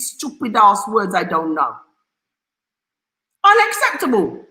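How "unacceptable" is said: mocking sneer. Mocking the bank's word.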